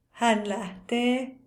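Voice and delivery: "lähtee" slowly, with the final ee drawn out; long E. Shown as a demonstration. Teacher showing learners a verb form, long final E in "lähtee". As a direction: hold the ee at the end of "lähtee". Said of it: "Pitkä E".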